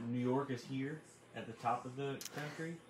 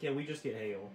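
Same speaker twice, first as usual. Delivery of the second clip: mock nonchalant; 4 dB louder than usual. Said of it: "you say it like it's all nonchalant".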